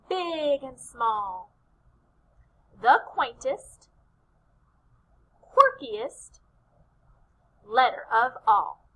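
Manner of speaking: slow chant with long pauses; measured call-and-response ending; cheer. Shown as a demonstration. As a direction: chant it out piece by piece for echoing. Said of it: "we're gonna do our Q cheer".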